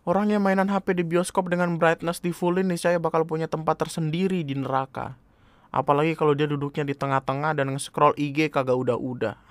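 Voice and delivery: mild reenacted rant. Reading own status about cinema phone users, mildly angry. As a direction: read it as an exasperated complaint. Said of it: "gua marah-marah kayak".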